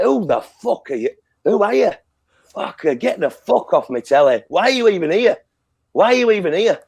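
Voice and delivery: indignant questions, pitched high; pissed-off heckling. Retold or imitated. Fan yelling questions at Brandy on his telly, pissed off. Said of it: "it fucked me off".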